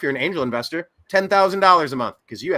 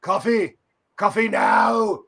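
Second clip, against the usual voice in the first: loud, slow, higher shout; mock caffeine-starved roommate yell; imitating a roommate's demand; 6 semitones higher, 3 dB louder, slower than usual. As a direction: bark it like a desperate craving. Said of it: "the phrase that Clint would use".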